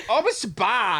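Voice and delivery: high, lightly voiced fake language; gibberish language. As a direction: answer in made-up babble. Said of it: "and then he'd go".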